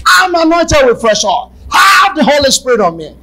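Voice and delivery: shouted declaration; declaring aloud. Shown as a demonstration. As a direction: declare it over yourself. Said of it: "I told you about me anointing myself".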